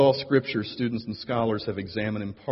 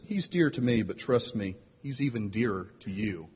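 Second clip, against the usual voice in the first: softer, quietly menacing delivery; veiled threat; 3 dB quieter than usual. Acted. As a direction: say it kindly with a threat underneath. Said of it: "has a lot of threat in it".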